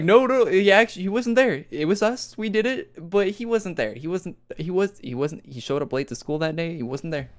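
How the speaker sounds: frantic denial in a high voice; high excited protest. Retold or imitated. Classmates insisting to the teacher that he wasn't there, high and frantic. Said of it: "but they were like".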